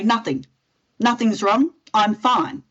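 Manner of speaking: lightly acted passive-aggressive brush-off; mildly hammed-up passive-aggressive replies; passive-aggressive denial. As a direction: insist nothing's wrong, with a mock huff. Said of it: "Passive aggressive, let's face it, hardest to deal with".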